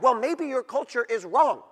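ordinary talk, nothing marked

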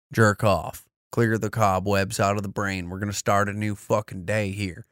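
put-on lightly done southern accent, motivational pitch; a laid-back Southern motivational speaker; a hint of a Southern good-old-boy coach. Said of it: "doing it in a southern accent".

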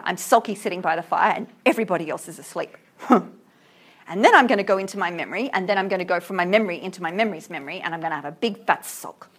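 quick, mocking paraphrase of a sulky poet; caricature of sulking poet. Teacher mocking the poet's mood for the class, quick sulky caricature. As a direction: rattle it off like a self-pitying sulker. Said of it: "I'm caricaturing".

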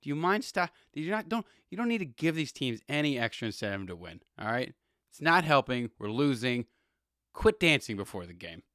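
mock the fed-up coach begging him to stop; exasperated coach. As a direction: coach chewing out a dancing player. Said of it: "Tomlin, was just like".

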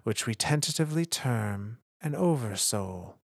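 measured, solemn lore reading; dramatic audiobook narrator, unhurried; story narration. A narrator's reading. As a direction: read it like an ancient chronicle, with weighty pauses. Reads a lore chapter aloud.

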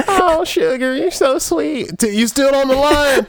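high, slow sultry hotline voice; sexy Southern woman.

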